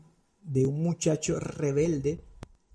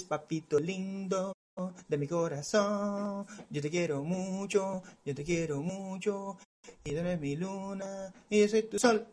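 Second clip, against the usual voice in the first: mock sweet talk; 5 dB quieter than usual. Mocking parents' sweet talk to child.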